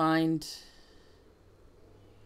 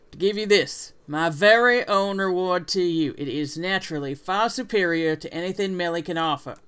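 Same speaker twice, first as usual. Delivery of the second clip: put-on southern accent. Rival handing over a reward, southern accent. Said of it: "what it is about a southern accent".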